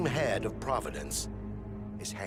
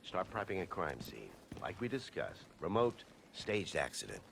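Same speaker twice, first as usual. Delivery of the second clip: low, hushed plotting; covert orders; 6 semitones lower, 7 dB quieter than usual. Acted. Plotter phoning a henchman about Plan B, hushed covert orders. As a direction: keep it down as you give covert instructions.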